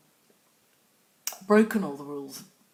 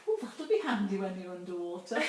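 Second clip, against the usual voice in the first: laughing quote; 3 semitones higher than usual. Retold or imitated. Laughing as she retells mum's joke. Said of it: "And she went".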